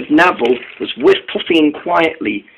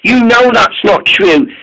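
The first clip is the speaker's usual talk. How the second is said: Caitlin's voice; 7 semitones higher than usual. A narrator's reading.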